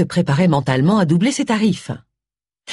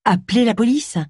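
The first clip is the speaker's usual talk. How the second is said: raised, questioning pitch, mildly accusing; incredulous echo; 5 semitones higher than usual. Acted. Agatha turns on Charles over his cry, incredulous echo. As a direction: throw the words back as a disbelieving question.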